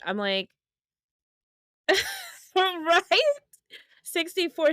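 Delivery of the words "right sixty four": laughing. Real, not acted. Laughing at the age gap.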